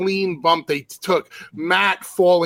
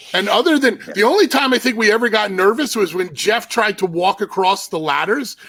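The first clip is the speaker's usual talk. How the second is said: higher, faster, lively retelling; excited; 6 semitones higher, faster than usual. Real, not acted. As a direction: rush through the scary memory.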